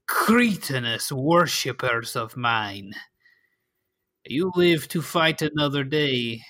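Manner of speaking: a hint of a disdainful noble villain; vampire lord voice. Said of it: "you can hear him say".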